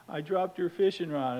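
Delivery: high, mildly whiny confession; mock a tearful little kid; imitated crying child. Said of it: "And he's crying".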